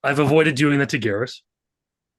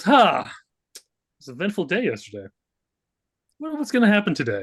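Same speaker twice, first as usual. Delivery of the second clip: waking yawner; 7 semitones higher than usual. Acted. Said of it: "yawns and goes".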